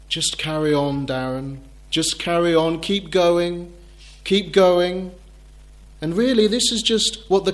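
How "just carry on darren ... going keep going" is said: calm. Retold or imitated. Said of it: "very calmly say".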